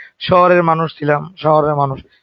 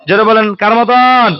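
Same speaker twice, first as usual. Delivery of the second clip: মতন pulled out, slower and louder; louder, slower prompt; slower than usual. Shown as a demonstration. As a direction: push the class to answer aloud.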